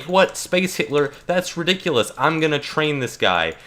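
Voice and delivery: mock scoffing Qui-Gon. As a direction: brush off the warning like a cocky master. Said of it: "And he's like".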